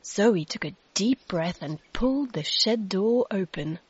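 ordinary delivery

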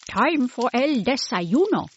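a hint of a kind grandmother calling to breakfast; Abuela's voice.

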